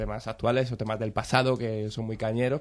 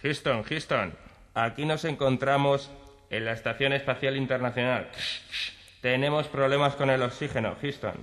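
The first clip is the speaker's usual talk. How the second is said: radio the base about trouble; astronaut radio call; 4 dB quieter than usual. Acted. Astronaut calls mission control in improv.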